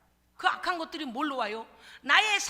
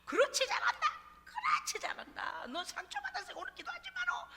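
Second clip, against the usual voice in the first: much higher, softer mocking devil; sly devil voice; 6 dB quieter than usual. Devil praising a hurt believer for skipping prayer, high and sly. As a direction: tempt them high and sneering. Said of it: "마귀로".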